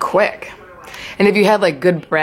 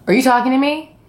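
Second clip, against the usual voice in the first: mock incredulous; 6 semitones higher than usual. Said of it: "So I was basically like".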